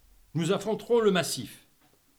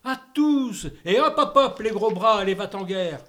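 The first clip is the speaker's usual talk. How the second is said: gleeful order; 2 semitones higher, 6 dB louder than usual. Acted. King cheerfully orders everyone beheaded, loud and gleeful. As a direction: bark out the order with relish.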